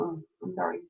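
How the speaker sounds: stuffy, nasal from a cold. Real, not acted. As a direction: talk through a blocked nose. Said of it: "deal with my nasally voice".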